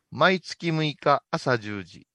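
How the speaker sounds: very slow, measured announcer read; commercial announcement. Shown as a demonstration. Director records a retake of the temple tagline, slowly announced. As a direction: space out each phrase of the notice. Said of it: "もう一遍いきます".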